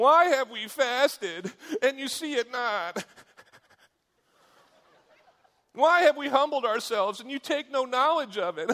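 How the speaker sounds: shrill, loud whining, pitched way up. Voicing how Israel sounds to God, in a mock-whiny voice. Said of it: "It's a whiny one".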